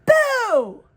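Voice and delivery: high, loud spooky boo; ghost jump-scare. A narrator's reading. Ghost springs from under the bed, high loud boo.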